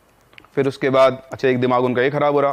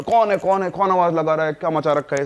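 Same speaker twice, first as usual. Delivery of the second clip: high, demanding mock shout; challenging shout; 3 semitones higher than usual. Father searching the house with a stick, challenging shout. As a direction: challenge the intruder while searching.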